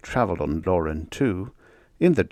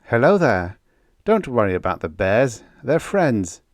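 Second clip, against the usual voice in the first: calling out; 3 semitones higher, 4 dB louder than usual. Acted. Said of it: "Then Huygens called".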